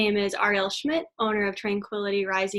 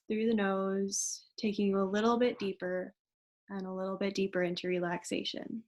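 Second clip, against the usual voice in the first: gentle yoga nidra guidance, quieter at phrase ends; guided meditation; 3 dB quieter than usual. Acted. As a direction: ease them into relaxation, unhurried and soft. Leads yoga nidra relaxation.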